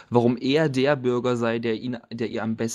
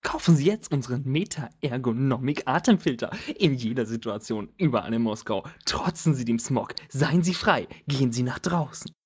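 chipper 1950s ad. Acted. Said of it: "Oh Gott, ich hab so viel Spaß".

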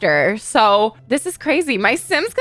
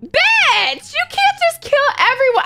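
outraged disbelief; 13 semitones higher than usual. Real, not acted. Yelling at the killer Sim.

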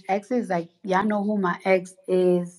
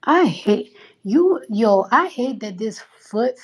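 frustrated outburst; 3 semitones higher, 4 dB louder, slower than usual. Real, not acted. Exclaiming in frustration.

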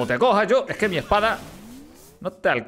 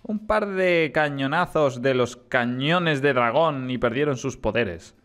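measured villain taunt; lightly acted story dialogue; game dialogue read-aloud; 4 semitones lower, slower than usual. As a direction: read it slightly low, with dramatic pauses.

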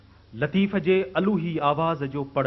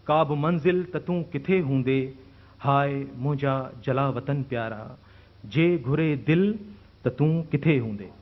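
measured verse recital with lingering phrase endings; poetry recitation. Acted. Host honouring an exiled poet friend with a couplet, recited.

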